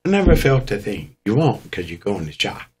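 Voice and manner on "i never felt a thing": high, surprised "Really?" then a shrug of disbelief; a jumped-up startled question, then a lighter shrug; mock surprise. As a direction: act stunned you survived. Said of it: "And you're like".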